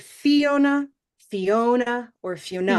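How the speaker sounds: "Fiona" with the stress moved each time; teacher asking where the stress falls; stress choices. Shown as a demonstration. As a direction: try the stress on each syllable. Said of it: "Where's the stress?".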